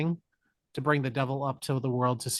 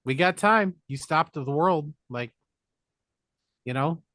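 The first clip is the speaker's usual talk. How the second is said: mock Satan; 5 dB louder than usual. Satan taunts Keanu to go look, in a smug mock voice. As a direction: tempt him like a smug devil.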